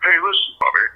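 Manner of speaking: lightly voiced Rodney asking his agent, rising; a hint of nervous Rodney; mild Rodney Dangerfield pestering his agent; Rodney Dangerfield impression. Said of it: "I'm like".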